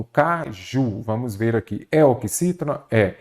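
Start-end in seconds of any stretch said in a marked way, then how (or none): 0.0-1.0 syllable by syllable. Shown as a demonstration. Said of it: "Então, primeiro ponto".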